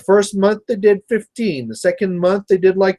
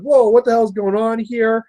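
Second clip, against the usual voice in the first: mildly alarmed, pitched-up retelling; mock freak-out; 6 semitones higher than usual. Imitating his wife watching the fight, mild freak-out. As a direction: imitate a startled bystander, voice raised in pitch. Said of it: "like, freaking out".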